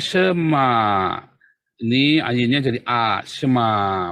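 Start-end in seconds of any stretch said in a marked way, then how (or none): 0.0-0.7 Shema with a short schwa, then open 'ma'; demonstrated pronunciation. Shown as a demonstration. Teacher reads the vowel marks aloud, demonstrating Shema. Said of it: "ada patahnya, maka bacanya". 3.3-4.1 Shema with the final a held long; long final vowel. Shown as a demonstration. Teacher shows the long vowel, drawn-out Shema. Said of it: "panjang ya".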